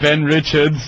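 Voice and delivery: mock Austrian action-star voice; German accent. Action hero introducing himself, German accent. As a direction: give the name in a put-on German accent. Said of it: "With that awful German accent".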